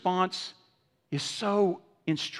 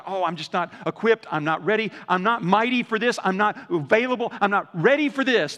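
mock anxious complaint; 3 semitones higher, 5 dB louder than usual. Voicing parents' worries.

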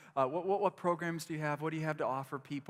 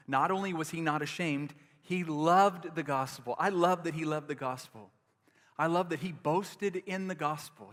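emphatic preaching; 2 semitones higher, 6 dB louder than usual. Real, not acted. Preaching builds to loud.

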